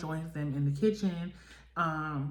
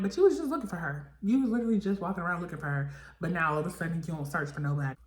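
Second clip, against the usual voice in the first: fast indignant retort; much faster than usual. Retold or imitated. Vlogger arguing back at Razor.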